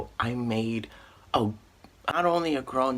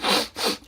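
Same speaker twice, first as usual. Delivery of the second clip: one quick wet sniff through the nose; a retold sniffle, lightly done; imitated sniff; 4 dB louder than usual. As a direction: sniff like a friend about to cry. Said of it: "he started sniffling and crying".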